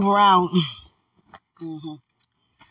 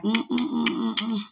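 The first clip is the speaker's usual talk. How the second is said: string of savouring "mm"s, slightly raised; appreciative humming; 4 semitones higher than usual. Acted. Wishing sweetheart were here, appreciative humming. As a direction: hum it over and over with relish. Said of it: "I'm like".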